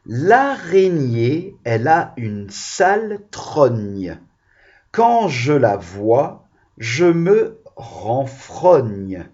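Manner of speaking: slow sing-song nursery rhyme, stretching each word; reciting a rhyme. Shown as a demonstration. Teacher reciting a rhyme to children, slow and sing-song. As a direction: recite the comptine slowly to the class. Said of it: "petite comptine".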